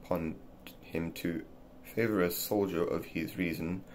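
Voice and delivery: put-on measured, careful reading of an old essay; reading aloud. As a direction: read it steadily like a formal book passage.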